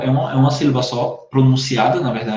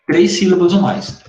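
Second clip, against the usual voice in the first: emphatic rule; 4 semitones higher, 5 dB louder than usual. Shown as a demonstration. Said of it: "teacher stresses the rule".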